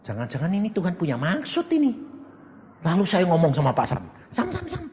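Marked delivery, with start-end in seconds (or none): 4.3-4.8 higher, soft call of a name; calling a friend. Acted. Preacher calls to Pak Sam, coaxing. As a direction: coax him by name, lightly.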